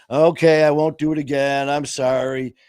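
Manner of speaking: loud, careless mock sorry; brushing off his mother with a fake sorry; insincere apology. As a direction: toss off a hollow apology. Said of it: "With no remorse".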